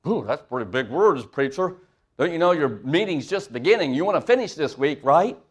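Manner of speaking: lightly voiced scoffing churchgoer; mocking congregant. A congregant mocking the preacher's big words, lightly voiced. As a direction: tease the preacher in a mild put-on voice. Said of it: "we don't talk like that around here".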